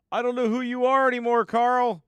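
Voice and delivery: I don't even recognise you anymore, pal; mock exasperation. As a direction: play it as fake outrage at a friend. Mock exasperation at viewer Carl.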